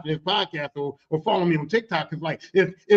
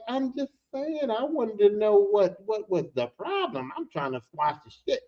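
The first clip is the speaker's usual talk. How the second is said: drawn-out, placating delivery; slow backing down. Retold or imitated. Coworker tries to squash the beef, slow and placating. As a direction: stretch it out, retreating from the fight.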